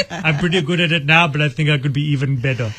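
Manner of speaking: lightly voiced cartoon monarch; King Julian. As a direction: quote it in a comic accented character voice. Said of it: "The best King Julian line is".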